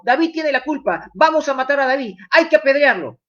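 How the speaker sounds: half-acted grumbling mob; angry murmuring crowd. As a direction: voice the men blaming David, lightly heated. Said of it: "y empezaron a decir".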